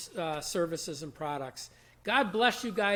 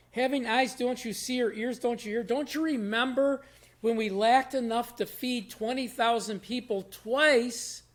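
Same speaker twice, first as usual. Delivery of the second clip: higher-pitched, emphatic retelling of an angry rebuke; a touch of indignant disbelief, voice raised in pitch; 4 semitones higher than usual. Retold or imitated. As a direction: press the questions as an exasperated teacher, mildly angry. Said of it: "why Jesus is so mad and angry".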